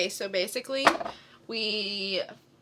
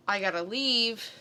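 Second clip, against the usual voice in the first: mild mock panic; 5 dB louder than usual. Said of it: "freaking out like".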